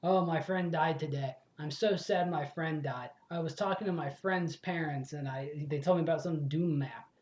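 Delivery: lightly hammed-up formal grief, slowed on the sad line; a touch of overwrought storybook sorrow; mock stilted mourner. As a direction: parody someone who keeps saying my friend. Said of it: "I wouldn't be like".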